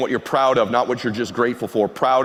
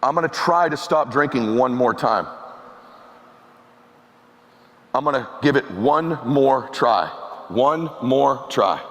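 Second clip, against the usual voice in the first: halting, understated vow with long pauses; slow down, weigh each word of the promise; retold tearful vow; slower than usual. Crying father promising his son he'll stop drinking, subdued. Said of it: "And he's crying".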